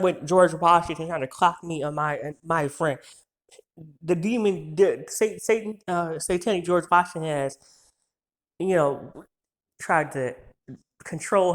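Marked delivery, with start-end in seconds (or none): 4.0-7.6 real flustered false starts; worked-up stuttering. Real, not acted. Speaker rants about a friend's abuser, stuttering. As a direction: stumble over the words, restarting. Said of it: "I'm stuttering".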